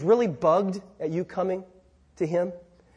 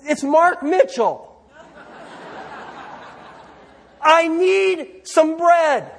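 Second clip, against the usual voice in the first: calling at the door; 4 semitones higher than usual. Acted. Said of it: "you hear this voice echoing".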